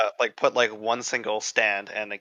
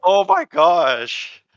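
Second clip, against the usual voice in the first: loud, drawn-out disbelief; amused astonishment; 5 semitones higher, 8 dB louder, much slower than usual. Real, not acted. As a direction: stretch it out, loud and higher, floored by the news. Amazed at the mecha locker head.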